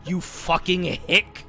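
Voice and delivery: loud, high, laughing mock telling-off; mock scolding yell. Player scolds a friend for his southern dialect, laughing and loud. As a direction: bark it at him through laughter, half joking.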